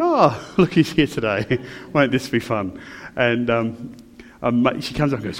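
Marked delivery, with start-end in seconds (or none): 0.0-2.8 sarcastic welcome. Retold or imitated. Sarcastic greeting of returning lady.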